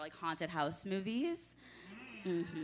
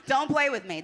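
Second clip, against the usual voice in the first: cold greedy landlord; 7 semitones higher, 8 dB louder than usual. Pretend. Landlord persona continues.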